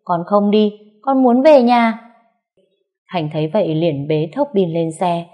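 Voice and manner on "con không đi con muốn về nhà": put-on high, louder, slow insistent boy; little boy insisting on going home; child refusing. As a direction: plant your feet and wail it out.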